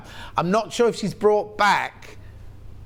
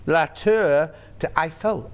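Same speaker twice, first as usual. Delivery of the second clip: put-on French with Yorkshire accent; slower than usual.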